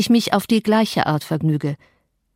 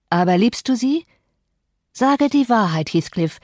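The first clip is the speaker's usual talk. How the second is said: Catherine challenging; 3 semitones higher than usual. Acted. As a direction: demand the truth, half teasing.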